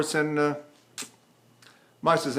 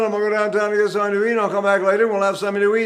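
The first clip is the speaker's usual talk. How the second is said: fast, louder, all run together; Italian-style legato talk; 3 semitones higher, 4 dB louder, much faster than usual. Retold or imitated. Teacher imitating how Italians talk, one flowing sound. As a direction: glide through it without breaks. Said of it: "The Italians talk like that".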